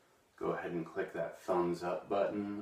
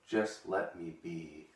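emotional. Acted. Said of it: "I get a little emotional".

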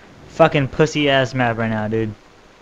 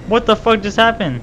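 pitched-up what-just-happened cry; shocked disbelief; 8 semitones higher than usual. Real, not acted. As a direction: yelp in disbelief at the screen. Sudden death in game.

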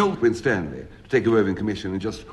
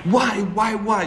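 high, raised cry of why, why, why; mock-dramatic why; 11 semitones higher, 4 dB louder than usual. Demanding the thief explain himself, a hammed-up cry. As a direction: ham up the anguished question.

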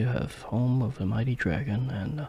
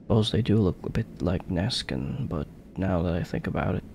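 lightly voiced cheeky ghost; 3 semitones higher, 3 dB louder than usual. Voices ghost sidekick reading dialogue.

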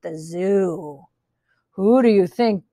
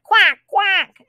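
two high quacks; quacking duck; 8 semitones higher than usual. A narrator's reading. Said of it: "And the duck said".

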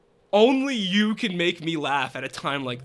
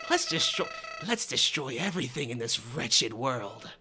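villain voice; 8 semitones lower, 5 dB quieter than usual. Acted. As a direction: savor each word of destruction. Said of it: "I sound like Joker?".

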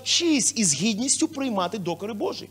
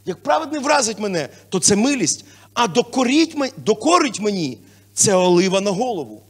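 louder, emphatic psalm reading; scripture reading; 7 dB louder than usual. Real, not acted. Pastor reading the Psalm to the church, louder. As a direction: proclaim the verse. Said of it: "Псалми сто сорок п'ять".

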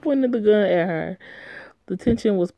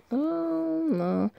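surprised oh; 11 semitones higher, 4 dB quieter than usual. Real, not acted. Reader's reaction.

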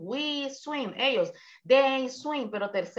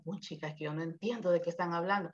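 mock confused student; 5 semitones lower, 8 dB quieter, much faster than usual. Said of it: "ahorita está diciendo".

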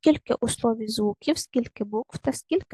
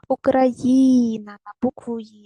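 Україна with the stress landing on the syllable «І», slow and louder; 5 dB louder, slower than usual. Shown as a demonstration. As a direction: lean on the third syllable, the letter «І». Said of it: "Поставте наголос". (наголос на «І», повільно)

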